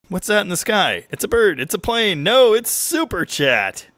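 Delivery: high-pitched excited announcer parody; mock superhero announcer.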